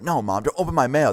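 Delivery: mock protest from a son; protesting teen son. Son objects as mom threatens opening.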